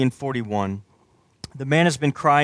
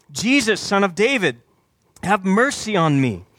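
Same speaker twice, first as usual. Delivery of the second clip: higher-pitched plea, mildly projected; calling out; 4 semitones higher than usual. Acted. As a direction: call out for mercy, restrained. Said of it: "So he called out".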